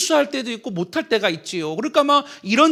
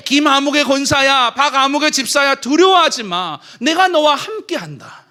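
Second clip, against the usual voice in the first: louder, rising to a shout; God's encouragement; 5 semitones higher, 5 dB louder than usual. Acted. God encouraging church members by name, louder rising to a shout. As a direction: call out to them boldly.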